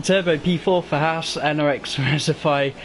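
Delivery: breathless commentary after a sprint; out of breath. Real, not acted. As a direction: still panting between words. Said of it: "I'm out of breath just running downstairs".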